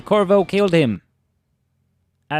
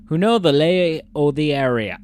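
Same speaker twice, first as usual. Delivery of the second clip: put-on louder go at an English accent; 4 dB louder than usual. Player retrying a line of the letter, English accent. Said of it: "read this in an English accent".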